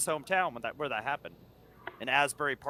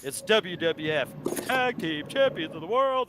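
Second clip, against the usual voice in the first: ring announcer. Retold or imitated. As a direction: announce the champions like a ringmaster. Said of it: "that's okay, yeah, that's how it goes".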